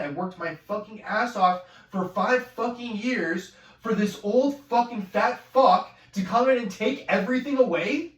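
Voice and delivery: rising into a loud furious outburst; angry rant. Real, not acted. Ranting to camera about the new hire, building to a loud furious outburst. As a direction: boil over at losing the job.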